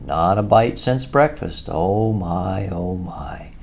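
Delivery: a hint of a hungry mole; lightly voiced Mole. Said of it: "moving towards the supper table".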